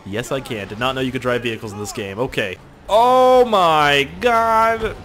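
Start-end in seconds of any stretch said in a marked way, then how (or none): 2.9-5.0 stunned gasp. Real, not acted. Stunned exclamation in game.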